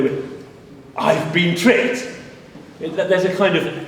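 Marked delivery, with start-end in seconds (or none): 1.0-2.1 dramatic line. Shown as a demonstration. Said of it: "at the end of an episode".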